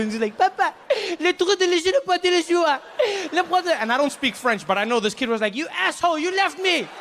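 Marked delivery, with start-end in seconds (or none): 0.4-3.8 high French sobbing babble; mock tearful child. Crying boy reproaches his father, high hammed-up French wail. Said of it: "They're both in tears". 5.5-6.9 high-pitched whining accusation; mock tearful child. Crying boy accuses father who left him, high mock wail. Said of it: "They're both in tears".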